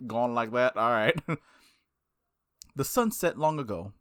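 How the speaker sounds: calm, even narration of the protagonist's thoughts; story narration. Acted. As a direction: read the inner monologue gently. Reads visual novel narration over music.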